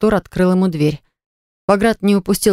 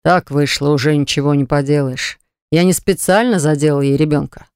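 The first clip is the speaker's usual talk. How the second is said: usual speaking voice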